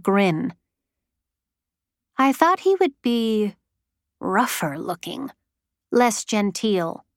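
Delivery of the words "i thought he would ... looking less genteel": dreamy. A narrator's reading. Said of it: "Her voice had a dreamlike quality".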